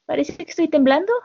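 a mild nervous stammer; hesitant, flustered. Retold or imitated. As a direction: stall nervously, caught off guard. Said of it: "Ella titubea y dice".

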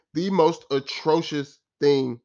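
stumbling, sputtering over the word in anger; words tripping over real anger; getting tangled up in frustration; too angry to speak. Real, not acted. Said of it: "I can't even speak correctly".

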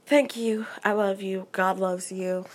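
talking with a sore mouth after fillings. Real, not acted. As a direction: speak carefully through a sore mouth. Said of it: "my teeth hurt so bad".

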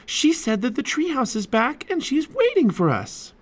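high-pitched eager news; excited exclamation. A narrator's reading. Annie tells Jack the treehouse is back, excitedly. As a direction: rush to share it in a high, excited voice. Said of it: "exclaimed Annie".

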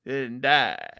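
slow Texas drawl like McConaughey; a lightly done Texas McConaughey impression; low, laid-back Texas accent; Matthew McConaughey Texas accent. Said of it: "That's your Matthew McConaughey".

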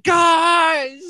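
high, drawn-out cry, laughing; mock exasperated shout. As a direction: imitate a buried friend yelling at his pals. Imitates Caleb shouting from the pile.

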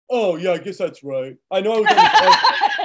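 laughing while voicing Josh giving in; laughing impression. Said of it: "Josh was like".

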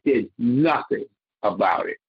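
"nothing" set apart and firmly stressed. Real, not acted. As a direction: lean on the word "nothing". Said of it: "I stress the word nothing".

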